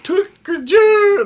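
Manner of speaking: high, slow hick voice; redneck voice. Retold or imitated. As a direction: squeal it like a hillbilly. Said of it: "he's like".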